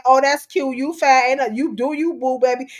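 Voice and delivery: mock the fake cheerful encouragement; mocking enablers. Host mimicking people who cheer on unhealthy habits, sarcastic. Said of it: "stop saying".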